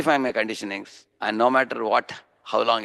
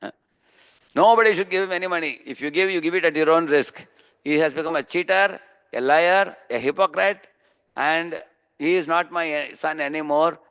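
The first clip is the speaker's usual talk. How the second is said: higher-pitched, emphatic retold denunciation; public declaration; 5 semitones higher than usual. Father warning everyone in the newspaper, emphatic declaration. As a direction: imitate a father formally disowning his son. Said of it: "he gave a declaration".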